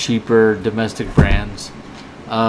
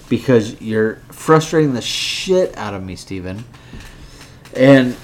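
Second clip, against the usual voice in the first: higher, heated telling-off; frustrated scolding; 4 semitones higher than usual. Real, not acted. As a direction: tear into the co-host, fed up. Drunk host scolding Steven on air.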